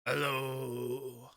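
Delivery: drawn-out call into an empty chamber; mock scream. Character heading back through the chamber, mock screaming. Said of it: "as he screams".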